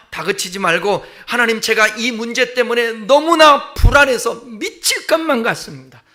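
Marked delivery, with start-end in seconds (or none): 1.3-6.0 anxious outpouring. Acted. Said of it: "솔직하게 쏟아내라는 거예요".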